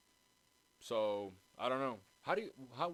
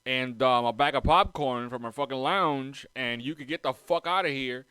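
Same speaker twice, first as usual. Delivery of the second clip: mock dealer; 7 dB louder than usual. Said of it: "Motherfucker say".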